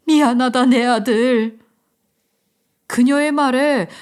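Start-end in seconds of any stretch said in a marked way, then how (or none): 0.1-1.6 미안하다 louder, burst out; crying out an apology. Acted. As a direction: cry 미안하다 out loud. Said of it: "그녀는 다시 소리쳤어요". (미안하다를 크게 외치듯)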